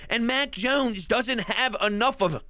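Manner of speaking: choked-up, faltering delivery. Real, not acted. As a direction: voice catching with emotion. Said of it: "See, I'm getting choked up".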